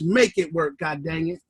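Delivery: low, soft, under-the-breath "Make it work"; a low, quiet aside, "Make it work, God dang it"; muttered command. Real, not acted. Firm muttered order after thanks.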